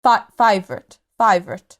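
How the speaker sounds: put-on tentative South African accent; trying out South African. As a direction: feel for an Afrikaans accent. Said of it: "do an Afrikaans".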